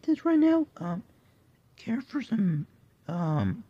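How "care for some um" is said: whispered offer, much softer. Real, not acted. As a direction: hush it like a sly offer. Offering food to pets.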